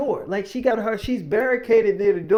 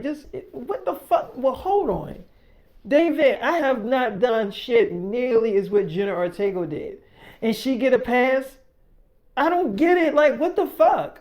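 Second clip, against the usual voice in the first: put-on higher, whiny girlfriend voice, rising into annoyed protest; girlfriend Millie voiced; 5 semitones higher than usual. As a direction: play the offended girlfriend, pitch up. Millie voiced in argument story.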